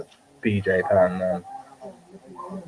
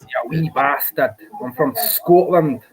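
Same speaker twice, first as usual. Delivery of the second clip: put-on Scottish accent; 4 semitones higher, slower than usual. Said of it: "You like the Scottish accent?".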